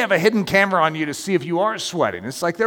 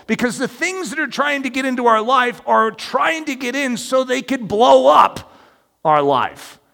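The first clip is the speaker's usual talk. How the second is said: higher, deliberate sermon delivery; emphatic preaching; 5 semitones higher than usual. Real, not acted. Preacher warns congregation the enemy is prowling, emphatic preaching. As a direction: press each phrase as a solemn warning.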